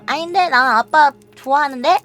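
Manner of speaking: put-on childlike voice insisting on loving dad; child's protest. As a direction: protest sweetly like a small daughter. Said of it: "내가 막 그랬어".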